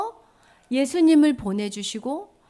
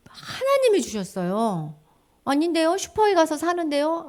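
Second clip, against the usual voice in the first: lightly voiced child, higher pitch; objecting child; 5 semitones higher than usual. Child answers back that it's bought at the supermarket, mild protest. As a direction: contradict like a puzzled kid, pitched up.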